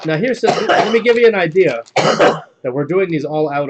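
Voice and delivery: loud, high laughing talk; amused admission. Real, not acted. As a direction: talk through giggles. Laughs at repeated joke.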